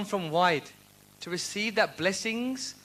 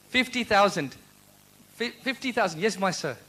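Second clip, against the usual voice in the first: auctioneer. Pretend. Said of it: "I sound like an auctioneer now".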